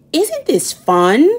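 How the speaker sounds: slow, drawn-out gloating; gleeful boy. Acted. Wendell gloating to silent Sophie, slow mild glee. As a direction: savour it, pleased with himself.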